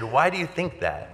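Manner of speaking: high-pitched retold challenge, falling at the end; incredulous question. Son challenging dad's doubt about salvation, incredulous question.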